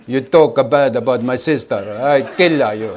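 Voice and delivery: hammed-up gangster menace, half laughing; mock threat. Teacher acts a Sicilian feud for his listeners, mock threat. Acted Italian vendetta threat.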